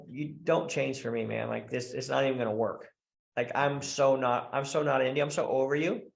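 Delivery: mildly acted weary dismissal, slightly low; checked-out woman. Checked-out wife giving up on her man, mild dismissiveness. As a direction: brush him off, a touch over it. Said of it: "like, checked out".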